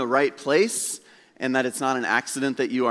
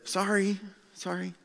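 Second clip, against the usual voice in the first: kindly apologetic; 6 semitones higher, 7 dB quieter than usual. Retold or imitated. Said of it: "he very kindly said".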